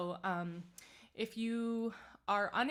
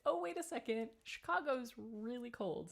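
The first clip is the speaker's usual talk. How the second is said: realizing with surprise; 4 semitones higher than usual. Retold or imitated. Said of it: "And I was like".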